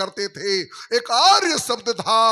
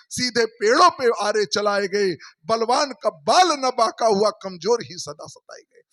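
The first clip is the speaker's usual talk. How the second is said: rhythmic declaiming of the couplets; a preacher reciting a verse on the weak and the strong; poem recitation. Acted. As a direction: let each line fall at its end like a verse.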